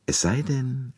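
slyly amused aside; a hint of a smile in the voice; smiling. A narrator's reading. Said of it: "sagte Poirot lächelnd".

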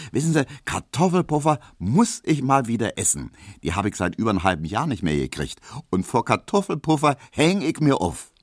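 put-on high, worked-up young woman; indignant young Emma. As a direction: get worked up about fickle men. Emma declines, raves about Kartoffelpuffer.

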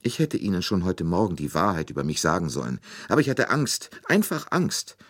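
high, loud, tearful lament; a nursemaid crying out her grief; weeping nurse. A narrator's reading. Nursemaid tells Poirot about the child, tearful and high. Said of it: "noch immer weinend".

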